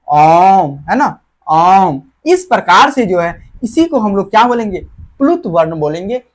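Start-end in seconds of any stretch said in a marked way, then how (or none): 0.1-2.0 ओम with its vowel held long, the second slower; drawn-out vowel. Shown as a demonstration. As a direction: stretch the ओ in ओम slowly. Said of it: "ओम भी जो है लंबा खींचा जा रहा है".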